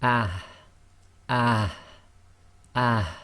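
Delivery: ah breathed softly from the bottom of the throat. Shown as a demonstration. Teacher models the soft ha after the vowel. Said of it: "it gives the sound of".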